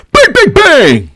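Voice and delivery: very high, loud mimicked bangs; high-pitched banging. Fan imitating thunder sticks at security, shrill high chant.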